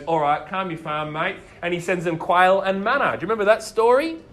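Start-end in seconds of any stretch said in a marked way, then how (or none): 0.0-1.4 lower, easygoing Aussie-style God; laid-back God. Retold or imitated. God telling the grumbling Israelites to relax, low and casual. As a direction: settle them down casually, mate.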